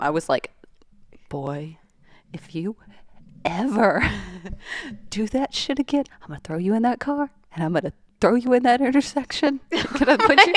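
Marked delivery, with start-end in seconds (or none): 1.3-10.5 retold scolding. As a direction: play up telling off little brother, breaking into laughter. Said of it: "No, I reprimanded him".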